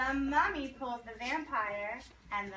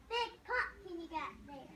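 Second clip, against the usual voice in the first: loud; 5 semitones higher, 7 dB quieter than usual. Shown as a demonstration. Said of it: "Gotta say it nice and loud".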